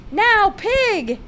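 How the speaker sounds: high, loud happy call down the stairs; eager child's call. Retold or imitated. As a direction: call out to Father like an excited little girl. Child calling Father for piggyback.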